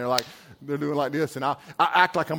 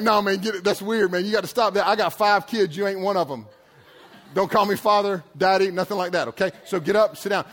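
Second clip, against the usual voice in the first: laughing protest; 3 dB louder than usual. Retold or imitated. Laughing, refusing guy kneeling.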